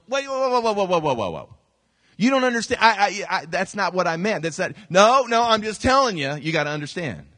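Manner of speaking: flustered protest. Retold or imitated. Pastor protesting to his wife, flustered and defensive. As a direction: scramble to explain yourself.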